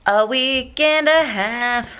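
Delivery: excited. Real, not acted. Finally finished building the dresser.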